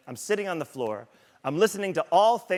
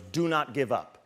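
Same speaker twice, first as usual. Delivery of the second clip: lower, slow, deadly serious coaching; Ray Lewis intensity; 5 semitones lower than usual. Retold or imitated. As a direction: drop the voice and press it home slowly. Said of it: "he goes".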